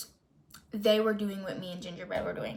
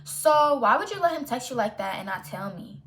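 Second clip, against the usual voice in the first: louder, demanding question to her friend; confronting friend; 5 dB louder than usual. Retold or imitated. To best friend who hid the texts: loud, demanding confrontation. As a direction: press her for an answer. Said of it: "I was like".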